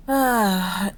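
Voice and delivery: heavy exasperated "ah"; frustrated sigh. Acted. Frustrated at lack of magic items.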